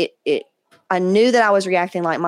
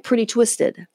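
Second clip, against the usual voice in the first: meme quote; 3 semitones higher, slower than usual. Retold or imitated. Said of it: "like the meme".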